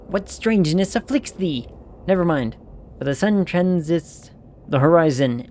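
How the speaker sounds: put-on stately old-fashioned speech, even and measured; lightly voiced stately lord; archaic lord. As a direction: lord scolding in thee and thou. Archaic lordly character voice.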